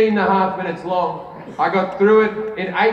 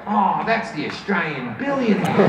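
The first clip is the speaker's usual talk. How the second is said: Steve Irwin voice. Retold or imitated. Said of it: "I'd become Steve Irwin".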